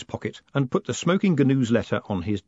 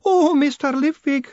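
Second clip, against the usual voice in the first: high, loud, tearful wail; weeping woman clinging to Moist; 5 dB louder than usual. A narrator's reading. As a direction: wail it once more, despairing. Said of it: "she wailed".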